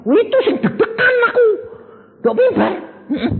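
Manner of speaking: laughing. Real, not acted. Preacher laughing to the church about his pulpit nerves. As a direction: laugh it out as if still nervous.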